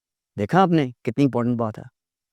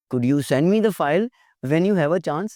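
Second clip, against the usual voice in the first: slow, courteous ask; teacher modelling a polite email ask, slow; polite request; 3 semitones higher, much slower than usual. Shown as a demonstration.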